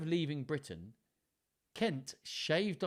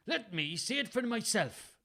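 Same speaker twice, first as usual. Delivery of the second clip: high-pitched Welsh that misses; botched Welsh accent; 11 semitones higher than usual. A narrator's reading. Father demands the letter from his son, botched Welsh accent. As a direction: try a stage Welsh and get it slightly off. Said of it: "What, what was that?".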